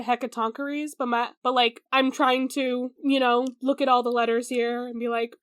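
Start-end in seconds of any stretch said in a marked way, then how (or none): 0.0-0.9 Hecatoncheires with a short "kuh-reez" ending; habitual pronunciation. Shown as a demonstration. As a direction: say Hecatoncheires as "heck-a-TONK-uh-reez". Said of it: "my brain always said".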